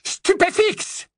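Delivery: high, slow, drawn-out spell cry; long high battle cry; shouted spell. A narrator's reading. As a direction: blast the curse out. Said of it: "s'écria".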